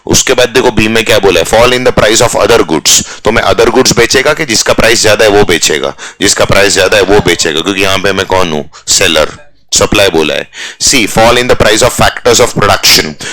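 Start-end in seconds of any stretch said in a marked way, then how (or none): 1.5-3.2 very slow read of the option; slow read-aloud. Shown as a demonstration. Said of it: "reading option slowly". 10.8-13.2 slow read of the option; slow read-aloud. Shown as a demonstration. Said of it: "reading option slowly".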